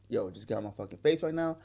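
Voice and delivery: low, soft, restrained annoyance; trying to stay calm. Retold or imitated. Man trying to keep calm with woman in his face, restrained irritation. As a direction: keep it contained, voice down. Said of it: "I'm trying to keep myself calm".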